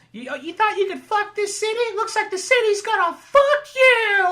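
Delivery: action hero one-liner. Acted. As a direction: deliver the kill line. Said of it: "He's like".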